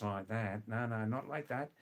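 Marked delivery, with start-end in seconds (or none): 0.0-0.7 nasal Australian demo; through the nose. Shown as a demonstration. Teacher showing vowels destroyed in extreme Australian, nasal. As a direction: say it through the nose, Aussie style. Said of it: "when they speak through the nose".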